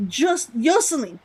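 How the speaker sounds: Jocelyn said as "Joe-suh-lin", stressing the O; Jocelyn with a long O. Shown as a demonstration. Streamer trying chat's correction, stressing the O in Jocelyn. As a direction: lean on the Jo of Jocelyn like Joseph. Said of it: "More emphasis on the O".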